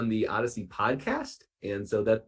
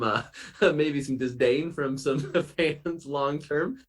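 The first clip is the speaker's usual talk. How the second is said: chuckling slowly through the words; laughing; 3 semitones higher, slower than usual. Real, not acted. Producer laughing about fans' disdain for the redesign. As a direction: laugh it off while admitting fans hated it.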